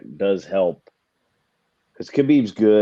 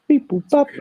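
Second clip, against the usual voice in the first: high beeping robot; 6 dB louder than usual. Pretend. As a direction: chirp it like a toy robot. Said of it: "with a robot".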